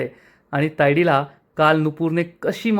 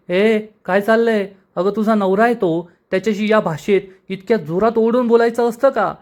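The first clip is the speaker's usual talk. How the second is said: raised, higher scolding voice; aunt scolding the girl for snapping at her husband, raised and higher; 5 semitones higher than usual. Acted. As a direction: tell her off like an outraged aunt. Aunt scolds the young wife.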